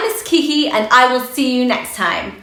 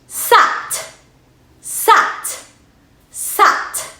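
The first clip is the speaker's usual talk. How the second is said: excited; 9 semitones higher, much slower than usual. Acted. Teacher cheers the blended word.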